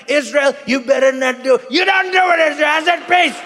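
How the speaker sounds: loud, high-pitched exasperated rant; hammed-up furious shouting at squabbling kids; angry dad scolding. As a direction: tell them off like a fed-up father. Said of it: "He looked like a dad".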